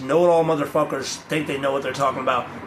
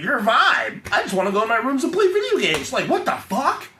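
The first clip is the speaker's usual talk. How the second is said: put-on higher whiny teenager voice; higher, mocking sulky kid; mock sulky teen; 7 semitones higher than usual. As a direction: parody your younger gamer self brushing off mom. Mocking his younger self.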